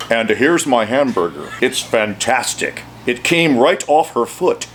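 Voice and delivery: a lightly done American accent. Shown as a demonstration. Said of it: "See, I learned to talk like that".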